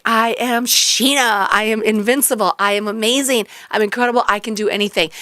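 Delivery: mock heroic alter ego proclaiming; alter ego boast. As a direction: declare yourself invincible, unhurried. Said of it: "get an alter ego name".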